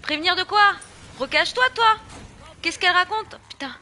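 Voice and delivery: high, loud indignant yelling; loud, high frustrated rant; exasperated shouting. Real, not acted. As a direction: shout in disbelief at the character. Exasperated at game character.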